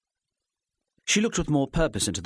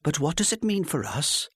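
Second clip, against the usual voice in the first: patient; 8 semitones higher than usual. A narrator's reading. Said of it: "trying to be patient".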